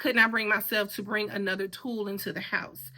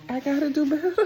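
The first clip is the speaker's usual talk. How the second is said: higher, louder, laughing through the words; laughing self-reproach; 5 semitones higher, 4 dB louder, faster than usual. Real, not acted. Laughing at herself to viewers, voiced and giggly. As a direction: scold yourself through laughter.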